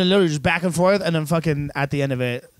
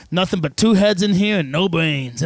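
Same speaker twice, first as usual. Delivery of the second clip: slow, mildly raised sarcastic griping; mock yelling; 3 semitones higher, slower than usual. Clerk belittling the other employees, mock yelling. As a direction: imitate a cranky boomer berating staff, slowly. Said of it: "just yelling at his other employees".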